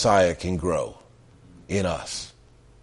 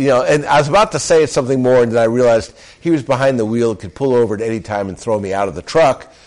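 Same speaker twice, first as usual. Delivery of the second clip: quick comic aside; 3 semitones higher, 4 dB louder, faster than usual. Real, not acted.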